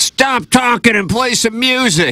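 mock very high heckling-style yell. Retelling a concert story where a heckler yelled: retelling a heckler's yell. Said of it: "somebody yelled".

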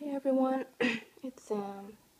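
slow, loud, freshly woken morning voice. Someone greets their viewers right after waking, in a just-woke-up voice. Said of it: "Excuse my weird voice, I just woke up".

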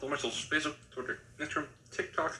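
mouth full while speaking. Listing social media links at the end of a video, talking while chewing. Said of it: "I'm chewing my mouth".

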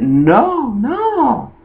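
high, rising, flustered delivery. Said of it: "the way she said it was very telling".

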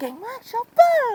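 very high-pitched cartoon voice. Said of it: "ฟิลนี้เลยนะวอตดิสนีย์เลยนะเสียงสูง".

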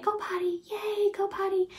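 soft whisper. Showing how to cue a puppy while it eliminates: whispering. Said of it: "whispering it".

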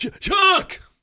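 panicked, very high, loud shriek.

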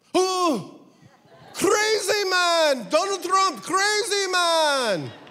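put-on Israeli-accented speech. Retelling a cab driver's answer about the American election, Jerusalem taxi driver impersonation. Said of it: "That's my Jerusalem taxi driver impersonation".

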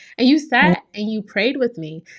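voice close to crying. Thanking the listener who sat and prayed with them, the speaker is getting emotional. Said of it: "I'm getting emotional".

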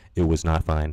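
low, dramatic, documentary-style narrator voice. After others said a rusty teammate would be fine, in a narrator voice. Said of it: "Narrator voice".

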